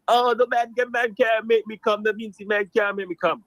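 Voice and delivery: mock a Jamaican lady's complaint, pitch lifted at first; mimicked Jamaican lady. Caller imitating his date grumbling about other men, mimicked Jamaican lady. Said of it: "this Jamaican lady, and she's like".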